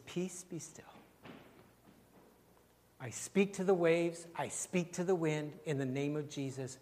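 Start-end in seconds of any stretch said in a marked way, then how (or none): 0.0-0.8 hushed command. Acted. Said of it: "the word of the Lord is".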